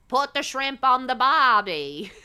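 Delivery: slow, drawn-out attempt at an Australian accent; badly faked Australian accent; mock Australian accent. Asking Australians about their sayings, mock Australian accent. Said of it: "do y'all say".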